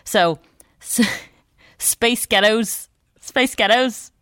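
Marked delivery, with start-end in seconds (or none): 1.8-4.1 slow, hopeful stab at a Scottish accent; attempted Scottish accent. Shown as a demonstration. Amateur showing radio co-host her trick phrase, attempted Scottish accent. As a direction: try a Scottish accent, not very convincingly. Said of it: "my Scottish accent saying the band's name".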